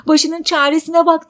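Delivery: high, loud quoted dismissal; loud mock yell; retold shout. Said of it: "diye bağırdı".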